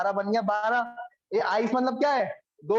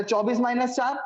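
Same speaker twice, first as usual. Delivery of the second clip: slow counting demo; 2 semitones higher, slower than usual. Shown as a demonstration. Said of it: "slow demo of counting down".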